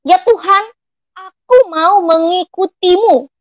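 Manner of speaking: lifted, slow, earnest vow to God; retold bold declaration. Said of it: "Aku berkata dengan lantang".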